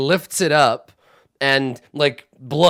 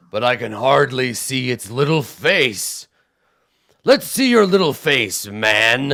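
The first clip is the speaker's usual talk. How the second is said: slow, teasing cyclops voice, rising on little face; sneering giant curiosity; slow mocking giant; 4 dB louder, slower than usual. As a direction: coax a tiny creature like a giant.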